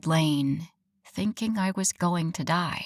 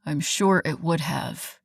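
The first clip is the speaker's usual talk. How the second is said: placating; 3 semitones lower than usual. Acted. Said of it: "he placated".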